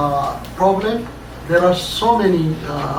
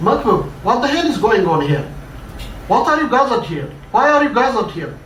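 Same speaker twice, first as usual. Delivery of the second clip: fast, higher, impatient barking questions; angry demand; 4 semitones higher, much faster than usual. Acted. Boss arriving at the accident scene, fast angry questioning. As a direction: rattle them off like an irritated boss. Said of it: "the boss asked angrily".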